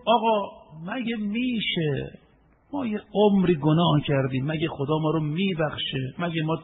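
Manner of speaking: a hint of a hopeless believer asking if God forgives; doubting sinner. Sinner asking the preacher if God forgives, mildly pleading. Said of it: "اگر یک کسی گفت".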